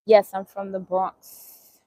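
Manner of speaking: slow, drawn-out Bronx accent on "Bronx". Shown as a demonstration. Telling a viewer she's from the Bronx, slow Bronx accent. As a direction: lean into the New York accent, slowly. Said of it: "I just still got my accent".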